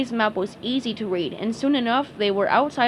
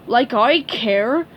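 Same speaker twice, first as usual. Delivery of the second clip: slow, loud scornful retort; sneering; 6 dB louder, much slower than usual. Acted. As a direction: dismiss him with scorn. Squidward sneering.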